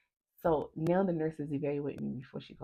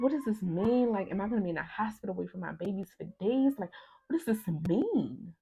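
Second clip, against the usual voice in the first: higher, urgent bewildered questions; retold alarm; 4 semitones higher, 4 dB louder than usual. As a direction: replay being scared and confused. Retold alarm at surgery news.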